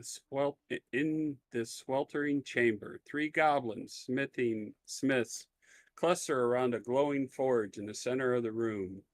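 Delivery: measured scene-setting read; game master narration. Acted. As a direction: paint the room for the players. Game master describes the room.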